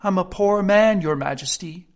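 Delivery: high, pleading, trembling plea. A narrator's reading. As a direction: beg the king, voice trembling. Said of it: "in a trembling voice".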